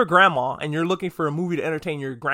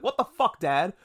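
"what the fuck" jumps much higher, then "Dad" drops back; indignant outburst at his father; upset son; 3 semitones higher than usual. Retold or imitated. Son finds his art defaced by his dad, in a mock indignant outburst. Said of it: "And he's like".

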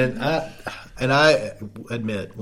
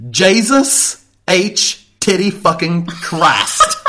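laughing exclamation; 5 semitones higher, 4 dB louder, much slower than usual. Real, not acted.

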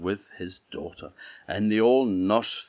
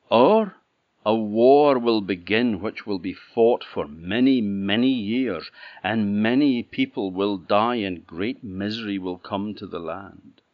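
prophesying princess; 5 dB louder than usual. Acted. Princess foretells the choices.

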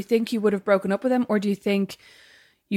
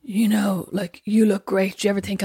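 lightly imitated drunk come-on, dragged out; halting, slow impression of a tipsy guy; mock drunken; slower than usual. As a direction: retell it with a touch of drunken slur. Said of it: "drunkenly said to me on the stairs".

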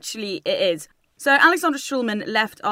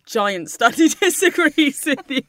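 teasing laugh; 5 semitones higher, 6 dB louder, slower than usual. Real, not acted. Teasing her friend with the phrase.

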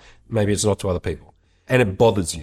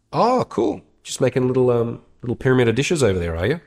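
passive aggressive; 3 semitones higher than usual. Acted. Housemate eyeing stacked dishes, passive aggressive. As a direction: needle them with fake friendly interest. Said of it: "me passive aggressively talking to myself".

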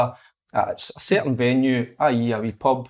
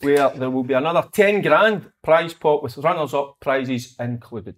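ad read. Acted. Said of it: "wanting to read things out".

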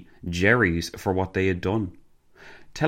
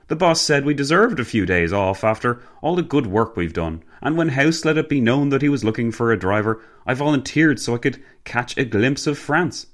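higher-pitched jovial gentleman; hearty gentleman, explaining; 6 semitones higher than usual. Acted. Gentleman explaining his days off to the passenger, breezy.

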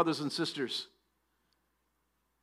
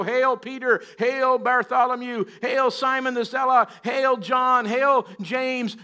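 higher-pitched, evenly repeated acclamations; mock crowd hailing; 4 semitones higher, slower than usual. Preacher imagines crowds cheering the disciples, mock hailing. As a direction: hail each name like an adoring crowd.

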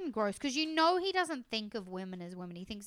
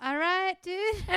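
mock unimpressed wife; 8 semitones higher, slower than usual. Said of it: "she'd be like".

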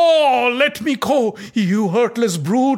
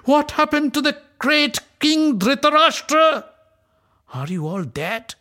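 much higher, louder furious accusation; raging; 10 semitones higher, 5 dB louder than usual. Acted. Draupadi rebukes the silent Kuru elders, raging. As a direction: shame the elders with fury. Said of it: "transformed into pure rage".

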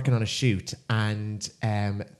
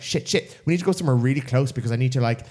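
rushed, mock-panicked inner voice; retold panic; 4 dB louder, faster than usual. In her head, needing a pub immediately, mock panic. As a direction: race through it in comic panic. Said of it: "pure panic".

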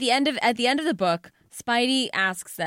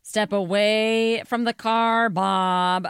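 cop command; 2 semitones higher, 5 dB louder, slower than usual. Pretend. Mock police command.

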